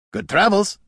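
light, amiable parting; friendly farewell. Acted. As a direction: call a friendly goodbye. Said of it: "with a friendly wave".

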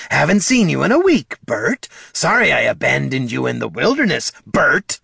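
high mock-apologetic kobold voice; sarcastic pantomime. A narrator's reading. Kobold mimicking an apology he never got, high sarcastic pantomime. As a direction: act out the apology he should have made. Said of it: "the kobold pantomimed".

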